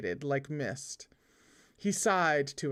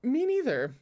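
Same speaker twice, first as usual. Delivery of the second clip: higher, light agreement with a smile; smiling reply; 7 semitones higher, 3 dB louder than usual. A narrator's reading. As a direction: agree brightly through a smile. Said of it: "replied with a smile".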